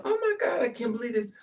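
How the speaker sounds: squeaky high mock gasp; mock shocked girl. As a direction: imitate a girl in disbelief, mocking. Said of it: "when girls go".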